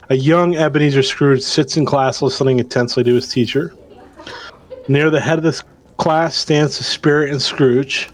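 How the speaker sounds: measured storytelling read; game master narration. Acted. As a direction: set the scene for the players. Game master reads scene.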